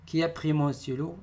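high asking tune; questioning tone. Shown as a demonstration. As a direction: demand who took it. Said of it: "phrase interrogative". (question insistante et haute)

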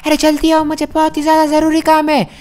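high, put-on voice of Iron Man calling; Iron Man's voice. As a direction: play Iron Man urging Franklin to hurry. (Iron मैन की ऊँची बनावटी आवाज़)

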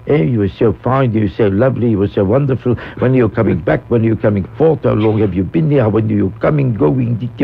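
a hint of a gushing royal greeting; lightly voiced Queen. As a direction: retell the Queen's string of polite compliments and questions. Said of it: "she looked at me and she said".

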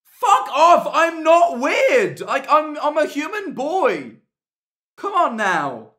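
loud, high protest, last lines slow; indignant yelling. Real, not acted. Streamer rebutting a chat message, indignant yell. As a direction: shout down the accusation.

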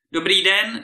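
high, loud, merry greeting; cheerful. A narrator's reading. Petřík fearlessly greets the giant, cheerful. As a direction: greet him brightly and fearlessly. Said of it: "řekl vesele".

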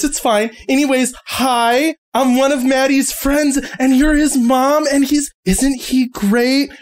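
lightly voiced gushing friend; bubbly girl. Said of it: "she just goes".

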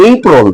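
এপ্রিল said as "EI-prol"; British pronunciation. Shown as a demonstration. Teacher showing how the British say it, British pronunciation. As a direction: open এপ্রিল with "ei", end in a dark "-prol". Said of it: "ব্রিটিশরা উচ্চারণ করে".

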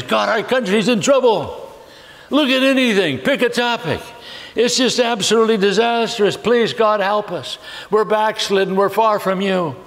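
high-pitched, mildly urgent plea to God; pleading prayer. Acted. Believer praying over a troubled country, mock-desperate pleading.

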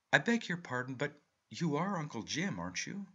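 put-on a young nephew asking shyly; young man's voice. A narrator's reading. Young Arthur greets his uncle.

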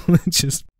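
laughing. Real, not acted. Laughs at own accent bit.

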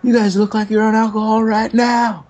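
high, squeaky mock interrogation; hammed-up suspicious leader; mock accusing teacher. Imitating the AA teacher accusing them of being drunk, high and squeaky. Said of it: "He's like".

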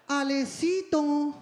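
slow, drawn-out pleading name call; victim voice. Retold or imitated. Father wheedling his son for a favor, victim voice. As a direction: whine the name like a helpless victim. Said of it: "Pone voz de víctima".

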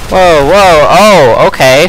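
surprised. Real, not acted. Sudden surprise in game.

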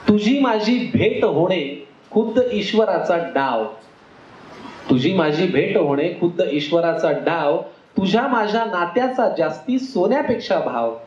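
slow, measured verse delivery; rhythmic wedding-verse recital; ukhana recitation. Acted. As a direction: recite a rhyming couplet to an audience, weighting each phrase.

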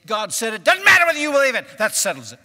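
loud, in-your-face pulpit scolding; preacher's yell. Retold or imitated. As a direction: yell it like a scolding preacher, then drop in pitch to finish. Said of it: "I've just been yelled at".

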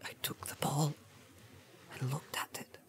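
faint, frightened whisper; stammering. A narrator's reading. Hobbit confessing to the wizard, whispered and faltering. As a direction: falter through it very softly, high and breathless. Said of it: "stammered Pippin".

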